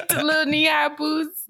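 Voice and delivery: laughing. Real, not acted. Laughing describing outfit.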